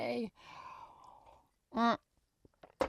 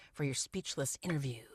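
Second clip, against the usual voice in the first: whispering; 4 semitones lower, 10 dB quieter than usual. Pretend. Joking whisper about show name.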